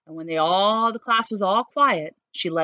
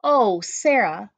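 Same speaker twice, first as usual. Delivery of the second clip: slow, gushing greeting; 2 semitones higher, 5 dB louder, slower than usual. Acted. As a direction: pour on the delight, slowly. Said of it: "Missus Burton gushed".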